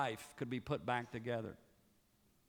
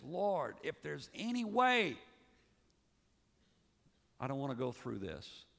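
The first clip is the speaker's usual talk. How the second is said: crying out. A narrator's reading. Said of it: "his humanity cries out and says".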